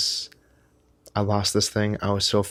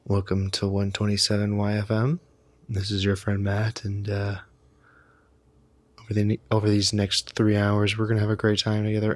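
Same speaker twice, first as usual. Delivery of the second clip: radio host voice. Shown as a demonstration. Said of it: "new age hippie radio host".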